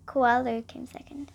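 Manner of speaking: hushed, disappointed whisper; sad whisper. Acted. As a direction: let the loss sink in.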